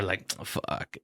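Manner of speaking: breathy whispered "fuck" of defeat; whispered curse. Real, not acted. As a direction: whisper it under your breath. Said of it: "muttered despair at vomit".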